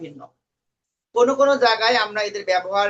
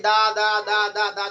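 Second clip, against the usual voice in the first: monotonous repetition of দা. Shown as a demonstration. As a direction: rattle off দা over and over. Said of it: "দা করে গেলে হবে না". (একটানা দা দা বলে যাওয়া)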